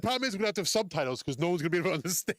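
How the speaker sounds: talking through a chuckle; tease, breaking into laughter mid-sentence; amused, laugh breaking into the words. Real, not acted. Cracks up teasing about the accent.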